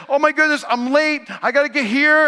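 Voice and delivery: panicking about being late; flustered rush. Retold or imitated. Preacher retells rushing, late.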